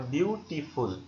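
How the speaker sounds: বিউটিফুল slowed into three beats; syllable by syllable. Shown as a demonstration. Teacher counting syllables for students, বিউটিফুল said in three slow parts. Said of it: "বিউটিফুল তিনবার উচ্চারণ হয়ে গেছে".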